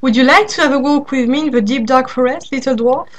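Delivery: sweet, smiling lure; smiling invitation. Acted. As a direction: tempt him with a smile. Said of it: "with a large smile".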